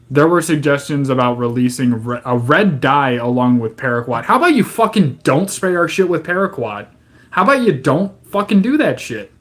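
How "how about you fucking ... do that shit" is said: higher, sharp incredulous jabs; exasperated rant. Real, not acted. Ranting at the government about spraying paraquat, incredulous. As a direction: tear into the government's plan.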